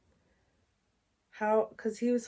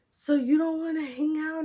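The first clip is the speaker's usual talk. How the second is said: high, louder imitation of being upset; mock tearful; 7 semitones higher, 5 dB louder than usual. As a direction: retell it as a hurt, high-pitched question. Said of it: "y'all, I'm bawling, crying".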